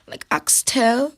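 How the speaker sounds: put-on slow, playful Jamaican accent. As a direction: drawl it out Jamaican style. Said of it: "Yeah, that was Jamaican".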